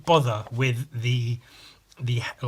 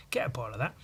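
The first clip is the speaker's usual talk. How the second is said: whispering the line as Sam; Sam, promising himself a bottle, whispers; hushed whisper; 4 semitones lower, 8 dB quieter, much faster than usual. Retold or imitated. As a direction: quietly say it like a secret plan. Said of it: "he was like".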